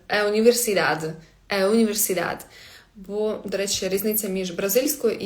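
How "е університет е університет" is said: "Е університет" opening on a half-closed eh; article closer to E. Shown as a demonstration. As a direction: begin "Е університет" with eh rather than ah. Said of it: "більше до Е схоже".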